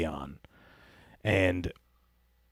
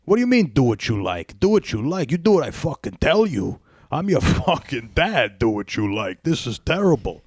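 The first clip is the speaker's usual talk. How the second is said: hammed-up outraged dad, higher and louder; mock outraged dad; 5 semitones higher, 3 dB louder than usual. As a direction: play a father exploding at the TV. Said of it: "I'm just imagining him".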